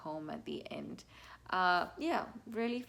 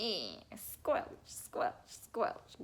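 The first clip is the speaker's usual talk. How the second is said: squelchy whisper; much slower than usual. Shown as a demonstration. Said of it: "you can kind of go".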